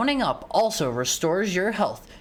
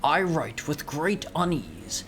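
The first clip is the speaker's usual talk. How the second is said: measured storybook reading; lightly acted dramatic narration; letter read aloud. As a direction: read a formal letter in character. Reads the letter in game aloud.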